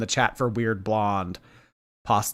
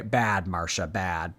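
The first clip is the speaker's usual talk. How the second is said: mock dog scolding; 5 semitones lower, 7 dB quieter, slower than usual. Real, not acted. Scolding chat user like dog.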